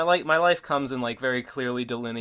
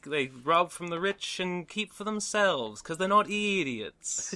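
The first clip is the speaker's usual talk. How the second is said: slow, lowered Hippo impression; 5 semitones higher, slower than usual. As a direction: drawl it out like Hippo. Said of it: "I love your your Hippo, uh, voice there".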